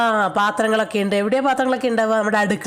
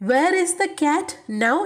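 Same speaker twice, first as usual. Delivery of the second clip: slow repeat; 5 semitones higher, much slower than usual. Shown as a demonstration. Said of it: "അപ്പോൾ Clint എന്താ ചോദിക്കുന്നത്".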